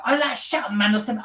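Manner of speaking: high mock bus-kid yell; loud schoolkids. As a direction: imitate rowdy kids shouting on a bus. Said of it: "they talk so loud on the bus".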